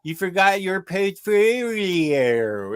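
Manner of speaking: slow, high, hugely stretched Australian vowels; comic over-the-top Aussie impression; mock Australian accent. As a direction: exaggerate an Australian accent, drawing out every vowel. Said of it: "do it in Australian".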